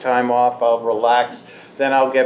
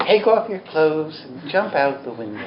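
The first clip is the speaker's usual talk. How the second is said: softer, laughing mock-velvet voice; soothing velvet tones; 4 dB quieter than usual. Teacher imitating her calm teacher's soothing voice, softer and giggling. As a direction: purr the absurd order gently, barely holding back a laugh. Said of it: "in her soothing velvet tones".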